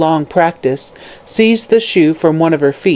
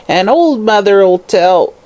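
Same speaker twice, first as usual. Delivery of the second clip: slow croaked crone; 4 semitones higher, slower than usual. Acted. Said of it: "she croaked".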